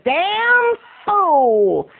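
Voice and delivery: high, slow, drawn-out disapproval; put-on voice of a cool woman passing judgment; cool, disapproving lady. Lady in business suit judges the stretcher, disapproving. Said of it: "and then the black's like".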